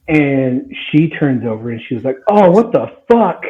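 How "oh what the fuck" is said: high-pitched, disgusted mock outburst; outraged exclamation. Sister waking to her puking boyfriend, imitated outrage. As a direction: act out waking up to a horrible mess.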